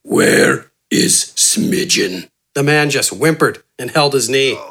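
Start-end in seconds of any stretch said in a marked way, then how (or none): 0.0-2.3 very low, slow, rough giant's growl; gruff giant. A narrator's reading. Giant looming over a hurt bandit, low slow growl. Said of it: "Gafgarn kneeled over him and asked".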